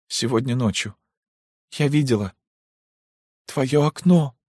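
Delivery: forced out with effort. Acted. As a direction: push each word out through tears. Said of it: "произнесла с усилием". (с усилием, сквозь слёзы)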